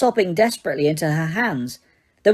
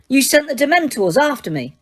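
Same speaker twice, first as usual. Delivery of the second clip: shocked accusation; 7 semitones higher than usual. Acted. Harry accusing.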